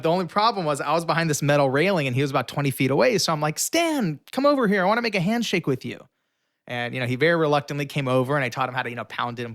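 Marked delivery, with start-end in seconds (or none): 3.6-6.1 high, eager call across the room. Retold or imitated. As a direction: wave him over with your voice. Calling Stan over from afar.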